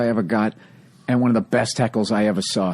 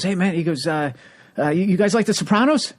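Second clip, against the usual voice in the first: high, strained plea to a dead crowd; pushing hard to win them over; desperate comic; 9 semitones higher than usual. Retold or imitated. Aging comic begging a young crowd to like him, strained and high.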